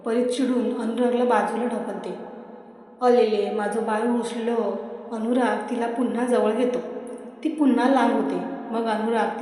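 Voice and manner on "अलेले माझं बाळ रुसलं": put-on slow cooing as to a sulking baby; teasing lover babying his girlfriend, slow and cooing; baby talk. A narrator's reading. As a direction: coo at her like a pouting toddler.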